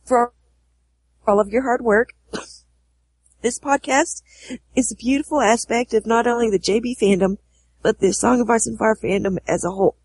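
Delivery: hoarse from a cold; sick voice. Real, not acted. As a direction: speak through a head cold. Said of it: "sick voice".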